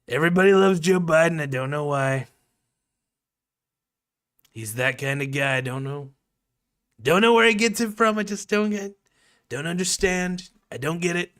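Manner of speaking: high, loud puzzled Trump; Trump impression. Streamer joking in Trump voice about Biden. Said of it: "my Trump impression seem like".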